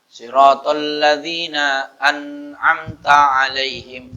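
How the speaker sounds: measured Quranic recitation with long vowels; slow chant-like verse; slow recitation example. Shown as a demonstration. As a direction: recite slowly, drawing out each syllable. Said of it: "gimana bacanya".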